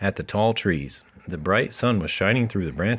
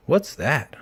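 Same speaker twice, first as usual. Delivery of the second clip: a touch higher, startled question; surprised; 6 semitones higher, 3 dB louder than usual. A narrator's reading. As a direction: ask it as if caught off guard. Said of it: "Fawn asked with surprise".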